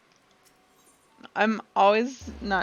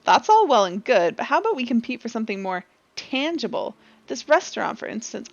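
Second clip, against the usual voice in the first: lightly voiced sly challenger; scheming rival; 6 dB louder than usual. Rival proposing a wager over the restaurant, sly. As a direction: raise the stakes with a smirk. Streamer voices game NPC dialogue.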